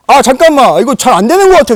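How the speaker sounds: very loud, high imitation of a sore loser; hammed-up gamer meltdown; acted frantic outburst. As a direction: blurt it out at the top of your voice. Sore loser smashing the joystick, acted.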